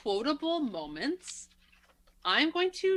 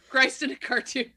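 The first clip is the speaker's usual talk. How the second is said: laughing through the quote; 3 semitones higher, 5 dB louder than usual. Retold or imitated. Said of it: "He says that".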